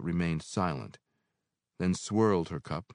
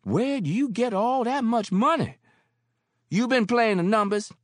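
high, loud amazed cry; landlady shocked by the bill; astonished Mary; 9 dB louder than usual. Acted. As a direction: gasp at the money. Mary's amazed voice.

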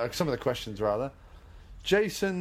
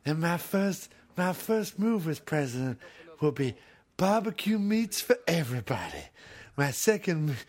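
imitating Steven Seagal; 3 semitones higher than usual. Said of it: "How would Seagal handle".

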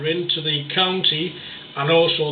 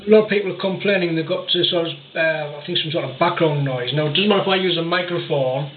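on speakerphone. Real, not acted. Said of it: "it sounds like you're on speakerphone".

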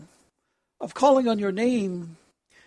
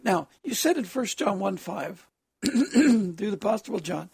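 hoarse, rough-edged voice; harsh voice. Real, not acted. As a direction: speak through a harsh, strained throat. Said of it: "excuse me for my harsh voice tonight".

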